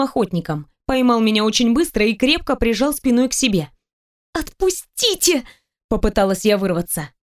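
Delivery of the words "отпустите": high, drawn-out plea to be let go; pleading cry. Acted. Caught by him, she pleads high and slow to be released. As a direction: wriggle free and beg. Heroine struggling in his grip.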